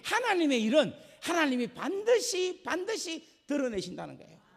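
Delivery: loud, high, full-force sermon delivery; fiery preaching. Real, not acted. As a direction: preach it out with fire and conviction.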